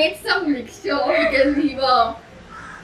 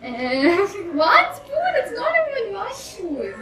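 laughing; 6 semitones higher, slower than usual. Real, not acted. Protests the size of the spoonful.

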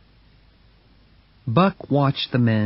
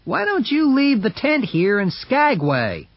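onlooker man; 11 semitones higher than usual. Acted. Onlooker voiced in story.

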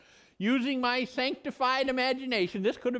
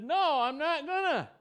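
proud Dagon; 6 semitones higher than usual. Acted. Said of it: "And proud Dagon says".

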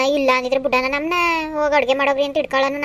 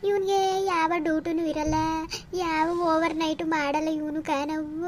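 crying daughter; 6 dB quieter than usual. Acted. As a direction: whimper it out through tears, hurt and bitter. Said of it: "ನೀನ್ ಅಳ್ಬೇಡ ನೀನು". (ಅಳುತ್ತಾ ನಿಧಾನವಾಗಿ ಮೆಲ್ಲನೆ ದೂರುವುದು)

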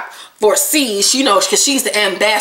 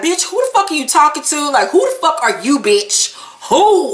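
lightly heated retold confrontation; mildly mad, punchy quote; mock angry challenge; 5 semitones higher than usual. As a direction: imitate an indignant who-are-you challenge. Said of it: "everybody immediately get mad".

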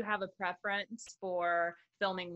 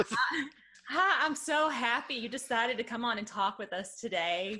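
light Southern American accent, a bit slower; 2 semitones higher than usual. Shown as a demonstration. Showing the guest her Southern accent on request, in a light Southern accent. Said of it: "what would it sound like".

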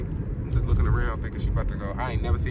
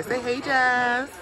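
cheerful greeting; 13 semitones higher, much slower than usual. Real, not acted. Greeting friends on camera.

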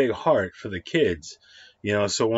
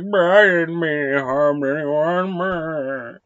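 mock apology; 6 semitones higher, 5 dB louder, slower than usual. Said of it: "He's like".

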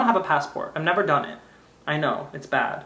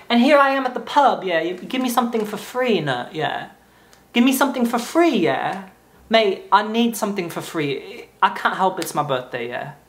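put-on English accent. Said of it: "pretend I'm from England".

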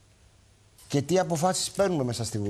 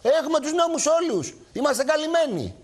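smug mock boast, much higher; 11 semitones higher than usual. Host imitating lawyers reassuring collectors, mock boasting. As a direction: crow about having all the laws. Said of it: "του λέει".

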